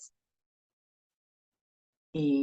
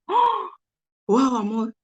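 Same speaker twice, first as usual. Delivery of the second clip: high, louder cry of wonder; amazed exclamation; 7 semitones higher, 4 dB louder, slower than usual. Retold or imitated. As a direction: gasp out the discovery to your husband, thrilled. Amazed on hearing the video.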